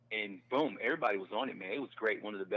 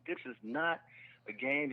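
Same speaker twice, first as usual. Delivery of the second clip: higher, emphatic mock scolding; retold berating; 4 semitones higher, slower than usual. Club manager berating new comics, stern. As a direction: imitate a stern dressing-down. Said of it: "just berated us and was like".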